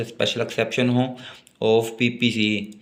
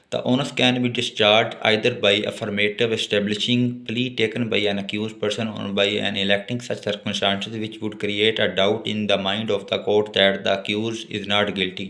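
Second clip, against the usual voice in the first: reads the statute slowly, word by word; slow dictation; much slower than usual. Acted. Teacher slowly dictating law text to note-taking students. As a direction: dictate it so students can write.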